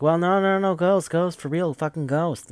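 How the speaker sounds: high, urgent mock protest; frantic insistence. Swimming girl insisting to doubters the ghost is real, frantic. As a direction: pitch it up, pleading to be believed.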